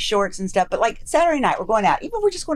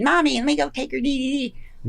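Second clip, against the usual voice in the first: higher, mock child voice; little kid; 4 semitones higher than usual. Wife mimicking husband as a little kid, high childlike pleading. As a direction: imitate a little kid asking Mommy. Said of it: "you're this little kid".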